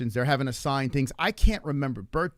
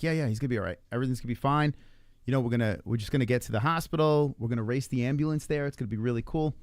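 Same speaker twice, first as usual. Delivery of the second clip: calm reassurance; 2 semitones lower, faster than usual. Retold or imitated. Parent reassuring daughter in the car, mildly acted calm. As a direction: play it down gently for a child. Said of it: "I had to be fucking calm".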